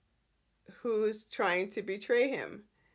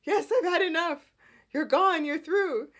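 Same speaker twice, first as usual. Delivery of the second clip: mock firing; 6 semitones higher, 5 dB louder than usual. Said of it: "he goes off on Adam".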